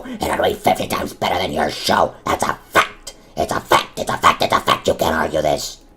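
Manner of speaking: mock-furious tantrum about the show; ranting. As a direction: go off like you've lost it. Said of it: "you have gone insane in the last two seconds".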